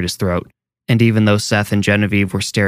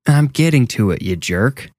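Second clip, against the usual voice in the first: snapping back; 3 semitones higher than usual. Acted. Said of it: "Eric shot back".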